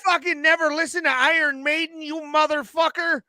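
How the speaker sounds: high-pitched mock-furious gangster interrogation; incredulous, hammed-up tough-guy outrage; Joe Pesci. Berating a friend over a band, movie-gangster indignation. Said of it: "I feel like fucking Pesci".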